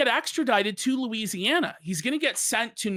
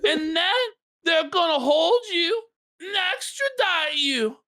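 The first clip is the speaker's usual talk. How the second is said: quoting the stern judge; 8 semitones higher than usual. Retold or imitated. Judge voiced in retold story.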